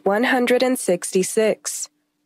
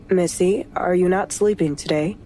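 lower, faint male voice; faint husband voice; 6 semitones lower than usual. Acted. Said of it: "Chase said faintly".

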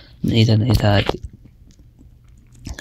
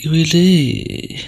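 slow whispered يا ويلي in dismay; hushed, drawn-out groan of despair; 4 semitones higher, much slower than usual. Real, not acted. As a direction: breathe it out under your breath. Groaning at a failed game move.

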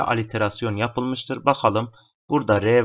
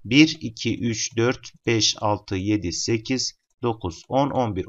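counting syllables. Shown as a demonstration. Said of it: "On birli hece ölçüsüyle yazmıştır".

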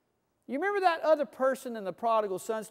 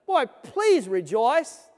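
slow, gentle pleading; gentle plea; 5 dB louder, slower than usual. Retold or imitated. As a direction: coax them slowly to rejoice. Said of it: "Pleads with us to rejoice".

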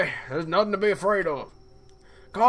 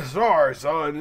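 low, fading smoker's voice; wheezy old dad; 4 semitones lower than usual. Acted. Dad apologizing to his son about his lungs, wheezy and low. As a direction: sound out of breath from old lungs.

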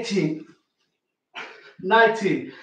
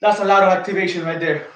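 panting between words; out of breath. Real, not acted. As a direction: talk while breathless after a set. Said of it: "I am out of breath".

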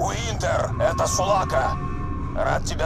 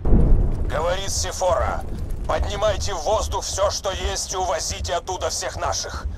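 over a radio; 3 dB louder than usual. Acted. Ship broadcast over comms.

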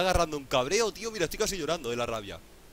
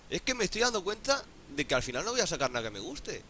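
ordinary talk

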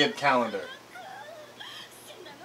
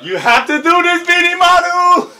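higher, louder hammed-up cry to Benimaru; mock dramatic plea; 11 semitones higher, 6 dB louder than usual. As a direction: beg like an anime hero. Imitating character's plea.

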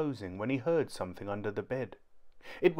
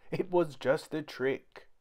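put-on high child voice crying monster; a small boy faking fright to fool Dad; little boy's fake alarm; 5 semitones higher than usual. A narrator's reading. Kipper fakes monster fright to Dad, high pitched.

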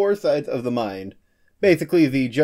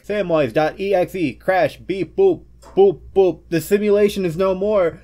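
loud robotic shutdown beeps; robot crashing; 6 semitones higher, 4 dB louder than usual. Pretend. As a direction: crash like a broken computer. Robot crash sound effect.

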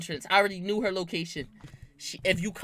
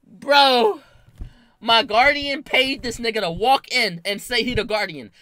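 loud, high, incredulous laughing rant; laughing outburst; 5 semitones higher, 9 dB louder than usual. Real, not acted. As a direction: burst out laughing in disbelief. Laughing outburst at the fake guardian.

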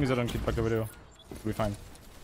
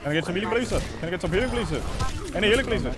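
higher, sing-song plea for healing; mock polite begging; 5 semitones higher, much faster than usual. Asking the healer for healing, mock polite pleading. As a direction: beg sweetly like a servant.

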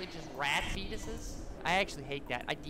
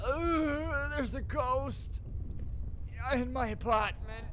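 mock frightened wail; 4 semitones higher, much slower than usual. Frightened by ghost in game.

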